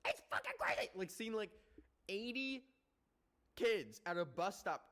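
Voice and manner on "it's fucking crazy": whispered in disbelief; whispering. Real, not acted. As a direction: drop to a whisper. Disbelief aside.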